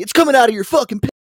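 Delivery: high, loud, fast mock rant; imitating the yelling cousin. Cousin yelling about a lost key, high mock rage. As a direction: spit it out like an angry boss. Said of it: "And if you lost the key".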